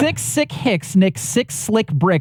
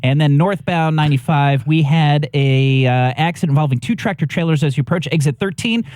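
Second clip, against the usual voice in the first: traffic report read; 5 semitones lower, faster than usual. Acted.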